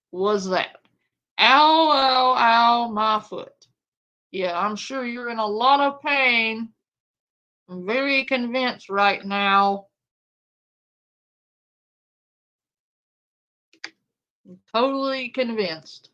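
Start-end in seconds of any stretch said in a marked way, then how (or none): 1.4-3.5 mocking fake yelp. Mock yelp imitation. 4.3-16.1 dry sarcastic disbelief. Real, not acted.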